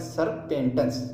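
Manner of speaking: serpentus slowly split as "serp - entus"; broken into parts. Shown as a demonstration. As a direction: read serpentus in separate chunks, slowly. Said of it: "तोड़ तोड़ के पढ़ें".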